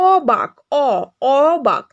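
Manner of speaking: "অবাক" with a long open aw opening; open "ɔ" vowel. Shown as a demonstration. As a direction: stretch the first vowel of "অবাক" as aw, isolating it once. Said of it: "অ এর মতো উচ্চারণ হচ্ছে না". ("অবাক"-এর অ টেনে খোলা অ ধ্বনি)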